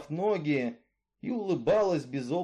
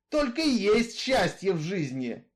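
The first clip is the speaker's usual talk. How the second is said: louder, steady outlaw's voice, arguing his case; Misfit, brooding killer; 4 semitones higher, 3 dB louder than usual. Acted. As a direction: tell her your grievance, hard and level. Misfit continues. (голос Изгоя, громче и жёстче)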